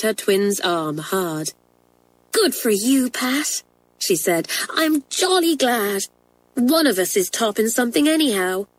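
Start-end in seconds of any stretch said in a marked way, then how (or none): 2.3-3.6 higher-pitched schoolgirl pleasure; lightly voiced glad twin praising her sister; delighted congratulation. A narrator's reading. 4.7-8.7 high schoolgirl delight, easing down; lightly voiced pleased twin; glad. A narrator's reading. Twin glad at sister's success.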